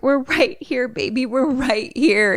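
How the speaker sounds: high, slow soothing mom voice; mother reassuring. Retold or imitated. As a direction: comfort a scared child you can't see. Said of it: "Mom's like".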